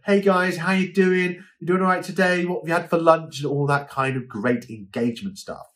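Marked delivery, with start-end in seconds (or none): 0.1-3.4 cheery host greeting. Shown as a demonstration. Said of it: "you know".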